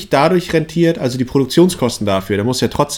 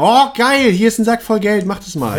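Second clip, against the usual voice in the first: excited gamer quote; 7 semitones higher, 3 dB louder than usual. Retold or imitated. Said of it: "Und die sagen".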